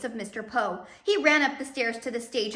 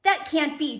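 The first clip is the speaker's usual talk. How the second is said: shocked cry; 6 semitones higher, 5 dB louder than usual. Acted. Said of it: "Justice Strauss cried".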